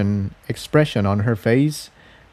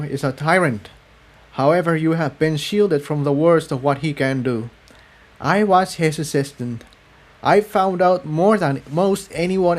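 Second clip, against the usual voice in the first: higher, grave confiding voice; earnest defector; 5 semitones higher than usual. Acted. Cerulean explaining the tyrant to the ponies, grave. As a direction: lay out the danger seriously.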